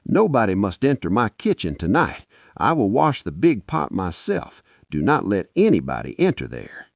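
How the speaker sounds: sharp, loud, scared command; guard the kitchen with fear; sharp and fearful. Acted. Wife forbidding anyone her kitchen, sharp and scared. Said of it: "Her voice was sharp and fear was inside it".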